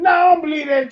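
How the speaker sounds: a listener shouting back in outraged denial; shouted disbelief. Retold or imitated. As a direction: yell it like you refuse to accept it. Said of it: "You gonna be like".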